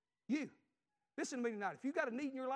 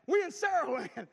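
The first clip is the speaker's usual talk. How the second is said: put-on high, loud, exasperated girl's voice; daughter's voice; 7 semitones higher, 11 dB louder than usual. Preacher voicing his lost daughter on the phone, high and whiny. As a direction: whine it out like a stranded teenager.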